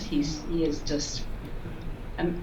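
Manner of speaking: normal talking voice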